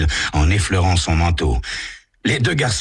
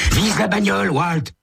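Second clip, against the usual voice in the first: put-on higher, swaggering boy's voice; cocky teen Tommy. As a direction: brush off your buddy, sure of yourself. Tommy points at car.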